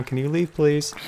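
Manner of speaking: light, rising polite ask to leave; polite request. Real, not acted. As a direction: ask them nicely to go. Shooing someone off camera.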